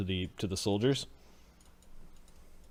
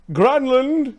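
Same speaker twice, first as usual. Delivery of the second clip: louder impatient call; 9 dB louder than usual. Acted. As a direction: call again, higher and louder. Master calls again.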